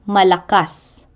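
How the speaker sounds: Malakas with stress on the final -kas; stress on last syllable. Shown as a demonstration. Teacher showing Tagalog end stress, final syllable stressed in Malakas. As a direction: land the weight on the end of Malakas. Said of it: "end stress laid on the last syllable".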